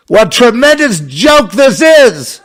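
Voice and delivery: high, loud, slow exclamation; hammed-up outcry, drawn out; mock exclamation. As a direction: proclaim it like a scornful preacher. Loud mock exclamation, repeated plainly.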